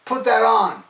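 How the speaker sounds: amazed reaction. Retold or imitated. Fan hears his friend's news about the record, amazed. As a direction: react with slow, high-pitched amazement. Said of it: "I was like".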